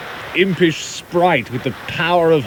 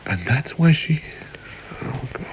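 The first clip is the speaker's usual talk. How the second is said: whispered, fading dismay; appalled hush; 5 dB quieter than usual. Acted. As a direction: breathe it out in dawning horror. Husband realises, appalled.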